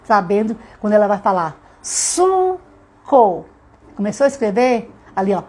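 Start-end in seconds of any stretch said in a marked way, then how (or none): 1.8-3.4 "suco" high, stretched into su, co; syllable by syllable. Shown as a demonstration. Child about to write says the word, syllable by syllable. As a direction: sound out "suco" high, one syllable at a time. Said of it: "consciência dessa quantidade de sílaba".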